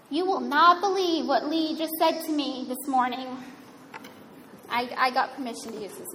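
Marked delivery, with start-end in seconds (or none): 0.1-3.3 lightly voiced gossip, meant to be overheard; a hint of eager tattling to a friend; mock gossip leaning in; gossiping aside. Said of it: "kind of say in an audible voice".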